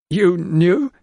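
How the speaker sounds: high, sharp surprise; gasped in disbelief; startled question. A narrator's reading. Housekeeper startled.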